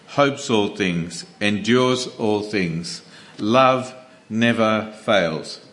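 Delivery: slow, measured scripture reading; solemn Bible reading, unhurried. Acted. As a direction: read each clause slowly, letting it land. Reads 1 Corinthians 13 aloud.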